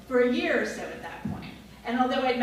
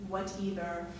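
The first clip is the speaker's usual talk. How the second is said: Australian whatever; 3 semitones lower, 6 dB quieter than usual. Retold or imitated. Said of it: "She pronounced whatever as".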